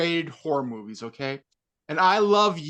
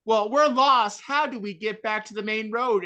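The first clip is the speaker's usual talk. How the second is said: lightly voiced helpless horror-movie bimbo, higher pitch; 5 semitones higher than usual. Bimbo lost in a horror movie asks the way, mildly hammed-up. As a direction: play a hint of a clueless bimbo. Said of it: "bimbos, uh, was saying".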